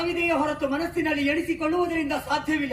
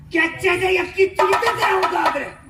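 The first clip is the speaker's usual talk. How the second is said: loud, raised declamation; heroic challenge; 4 semitones higher, 5 dB louder than usual. Acted. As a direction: hurl a battle challenge, loud and high. Stage warrior challenges foe to fight. (ವೀರಾವೇಶದ ಏರುದನಿಯ ಸವಾಲು)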